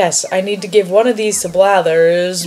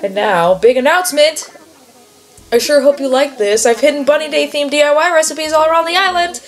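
cheery, higher sing-song bunny mascot; chirpy Easter bunny announcer, a little higher; perky bunny host; 6 semitones higher than usual. Acted. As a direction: sell the egg hunt like a bouncy mascot. Reads Zipper's dialogue aloud.

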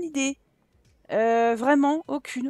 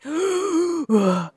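exasperated gasp; 2 semitones higher than usual. Real, not acted. Overwhelmed by baby cries.

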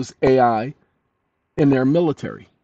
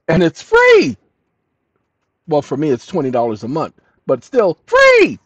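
excited; 3 semitones higher, 7 dB louder than usual. Real, not acted. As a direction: sell it like a bargain. Excited payoff line.

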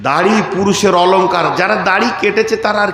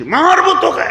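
high, sudden mock threat; acting out a cleric losing his temper; mock angry threat; 8 semitones higher than usual. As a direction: snap a pretend threat at a youngster. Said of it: "তা আমি খুব রেগে গেছি".

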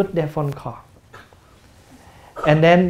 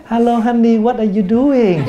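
sweet to a loved one; 4 semitones higher than usual. Retold or imitated. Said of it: "Why can you call your friend".

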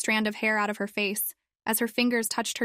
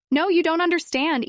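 high, loud cry of frustration; shouting; 8 semitones higher, 4 dB louder than usual. Acted. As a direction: shout it at your mother, upset. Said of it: "Ino shouted".

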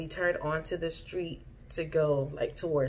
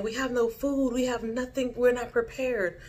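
retold panic; 7 semitones higher than usual. Repeating the warning in dream.

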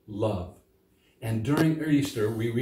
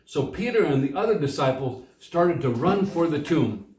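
scripture reading; 2 semitones higher than usual. Acted. Pastor reads the Easter story from John, storytelling read.

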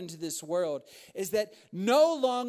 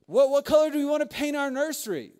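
higher, louder and fast, mock giddy; excited; 5 semitones higher, 7 dB louder, faster than usual. Expecting parent choosing nursery paint, giddy and fast. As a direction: gush like a thrilled parent-to-be. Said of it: "It's like".

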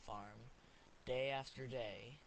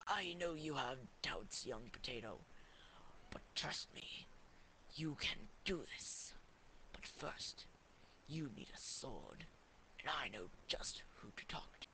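calm gentle wise voice; 3 dB quieter than usual. Acted. Wizard reassures potato.

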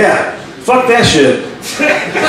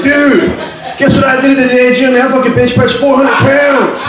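gym bragging; 4 semitones higher than usual. Acted. Gym bragger quoted, comic acts him.

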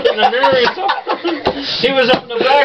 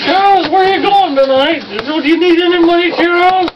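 lightly higher, fussing mother's voice; doting mother; 8 semitones higher than usual. Retold or imitated. Mother fussing over her son, lightly raised. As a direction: play the doting mother, a touch high. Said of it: "She says".

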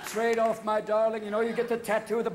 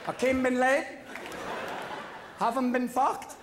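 mock roll call; 6 semitones higher than usual. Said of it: "sweet little Southern stewardess".

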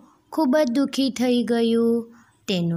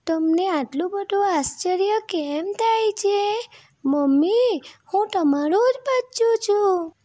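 very high little-chick voice; chick addressing mother; 12 semitones higher, 4 dB louder than usual. A narrator's reading. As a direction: speak up in a small, high baby voice. Chick pleads with duck as mother.

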